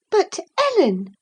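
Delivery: high, appealing outburst; shocked, appealing for help; astonished cry. A narrator's reading. To her nurse Ellen, a high astonished cry. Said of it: "cried she".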